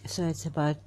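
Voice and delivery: chewing while talking; mouth full. Real, not acted. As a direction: talk through a mouthful. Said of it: "I have something in my mouth".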